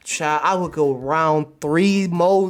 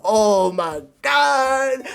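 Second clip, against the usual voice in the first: very slow, drawn-out oh my God; amazed; 4 semitones higher, 3 dB louder, much slower than usual. Retold or imitated. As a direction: stretch it out in awe. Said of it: "I'm like".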